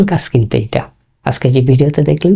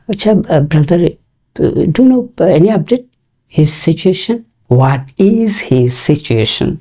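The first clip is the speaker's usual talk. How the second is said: higher, searching, with fillers; natural casual version; 4 semitones higher, much slower than usual. Shown as a demonstration. Teacher demos how a friend really asks for news. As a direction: ask casually like a friend checking in. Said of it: "এই is দেখবেন যে অনেক সময়".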